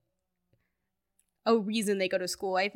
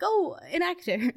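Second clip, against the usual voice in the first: higher-pitched acted "oh" of recognition; mock pleased surprise; 9 semitones higher than usual. Viewers spotting a good performer on screen, mock surprise. Acting out delighted viewer reaction.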